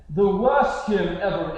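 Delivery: lightly put-on noble British accent, slow and haughty; stuck-up British accent. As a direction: imitate a snooty British lord's accent. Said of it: "I do a British accent".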